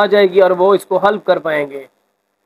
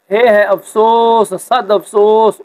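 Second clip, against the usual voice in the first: mock lament; slower than usual. Shown as a demonstration. Teacher acts out grief example.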